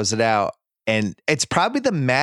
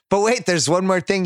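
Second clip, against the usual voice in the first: higher-pitched mock disbelief; incredulous echo; 6 semitones higher than usual. Imagined father echoing the cop's words, acted incredulity. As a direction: throw the phrase back in disbelief.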